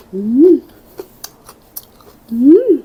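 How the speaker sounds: rising mm of delight; savoring hum. Real, not acted. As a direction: hum with pleasure after a bite. Tasting food on camera.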